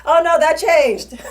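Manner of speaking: high, loud, drawn-out imitated reply; imitated official waving away the objection; mock-breezy dismissal. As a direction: brush it off in a comic singsong. Acted reply from the unit.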